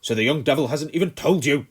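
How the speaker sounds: loud, high angry shout; furious colonel shouting. A narrator's reading. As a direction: bellow it at the boy. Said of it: "He was shouting now".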